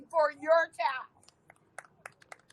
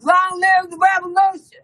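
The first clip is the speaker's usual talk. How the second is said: fiery revolutionary speech; 4 dB louder than usual. Real, not acted. Leads crowd chant.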